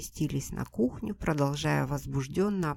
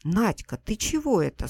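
louder, reproachful question; 6 semitones higher, 8 dB louder than usual. Acted. Sister reproaches Nadya for siding with him, loud. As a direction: scold her sister with a question. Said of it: "с укором спросила сестра".

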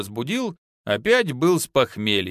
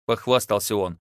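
usual speaking voice

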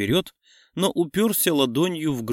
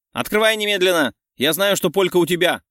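higher and louder, pounding fury; angry friend yelling through a door; furious shout; 5 semitones higher, 4 dB louder than usual. A narrator's reading. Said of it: "Очень-очень злой Ланки".

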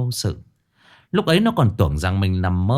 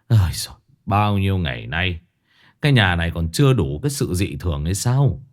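lower, quick, weary grumble; exasperated husband; 3 semitones lower, faster than usual. Acted. Old husband grumbles to his wife about the odd house. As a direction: lower voice, fed up with strange events.

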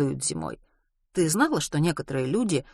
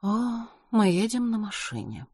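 wistful; 6 semitones higher than usual. A narrator's reading. Frail Miss Vera remarking on the car ride, wistfully. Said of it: "Любую фразу она произносила с тоской".

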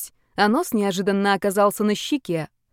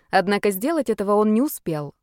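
ordinary delivery

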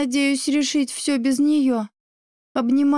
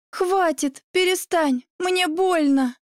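pained cry, pitched up; 5 semitones higher, slower than usual. Acted. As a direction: cry out through a splitting headache. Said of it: "кричу я, схватившись за голову".

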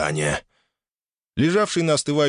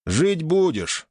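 smiling; 8 semitones higher, much slower than usual. Acted. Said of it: "произнёс с улыбкой".

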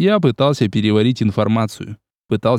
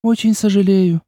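sincere; 8 semitones higher than usual. A narrator's reading. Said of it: "вполне искренне произнесла Ольга".

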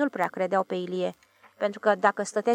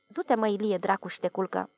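calm. Acted. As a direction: settle him down without fuss. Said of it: "zise liniștit".

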